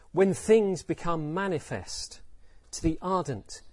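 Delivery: slow, ringing opening that eases down; victorious proclamation. Shown as a demonstration. Teacher imagining the Buddha's lion's roar, victorious proclamation. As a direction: proclaim it for the whole universe, then settle. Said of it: "did he say them loudly, victoriously".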